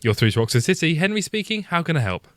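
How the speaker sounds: polite phone operator greeting; customer service voice. Acted. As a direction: answer the call like a helpful receptionist. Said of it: "I can do a proper customer".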